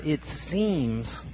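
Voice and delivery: seems leaned on, drawn out and soft; stress on seems. Shown as a demonstration. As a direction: linger on seems so it sinks in. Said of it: "get that word".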